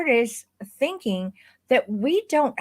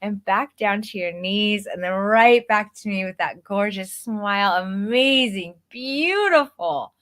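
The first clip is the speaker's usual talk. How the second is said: bright, bouncy photographer coaching a client through poses; upbeat coaching voice. Shown as a demonstration. Photographer coaching a boudoir client, upbeat and encouraging. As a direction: pump them up, keep it playful and energetic. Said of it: "my vocal intonation went from the way that I'm talking to you".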